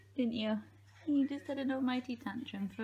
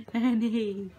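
calling out; 5 dB louder, much slower than usual. Real, not acted. Calling the dog.

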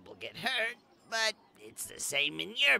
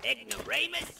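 offended echo; 7 semitones higher than usual. Acted. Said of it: "you cave-dwelling ignoramus".

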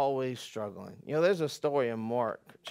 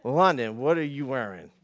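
put-on parent scolding kid; 4 dB louder than usual. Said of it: "regular statement that comes out of our house".

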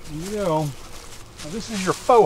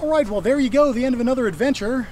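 bright, higher outro voice; cheerful sign-off; 6 semitones higher, faster than usual. Real, not acted. Vlogger signing off to viewers, upbeat and higher. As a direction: wrap it up with a cheerful lift.

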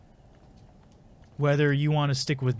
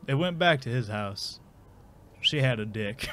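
shitty Morgan Freeman. Shown as a demonstration. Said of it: "Morgan Freeman telling a shitty bedtime story".

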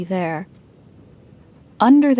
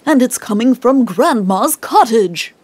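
shouted; 5 dB louder than usual. Acted. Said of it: "he shouted in shock".

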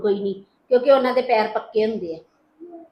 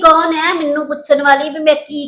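loud, indignant scolding; mother-in-law snapping back at the daughter-in-law, loud; angry retort; 4 semitones higher, 7 dB louder than usual. Acted. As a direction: put her in her place.

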